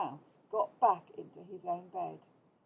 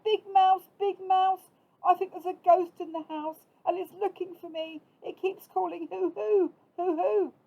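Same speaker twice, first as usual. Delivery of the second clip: high, loud scared mouse cry; frightened little mouse; 10 semitones higher, 8 dB louder than usual. A narrator's reading. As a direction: cry out in fear to Big Mouse. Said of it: "He was feeling very frightened".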